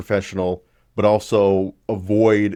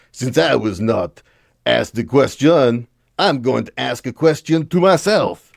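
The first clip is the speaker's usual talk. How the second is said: put-on Blanchet in a terrible French accent; 5 semitones higher, 4 dB louder than usual. Vlogger quoting the Bloc leader's debate line, terrible French accent. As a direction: do a deliberately bad French accent. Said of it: "here comes my terrible French accent".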